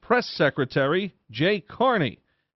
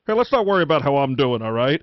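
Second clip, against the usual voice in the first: louder, fast, gruff brush-off; mock yell; 4 dB louder, faster than usual. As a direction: bark it back down the hallway, louder and quick. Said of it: "the I-Man yelled at me".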